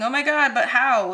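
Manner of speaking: imitated clueless listener. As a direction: mimic a listener who's still lost. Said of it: "leave this reading thinking".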